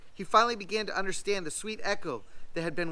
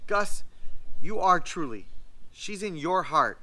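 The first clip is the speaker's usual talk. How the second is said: tearful; 6 dB louder than usual. Acted. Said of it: "a tear in her eye and crackle in her voice".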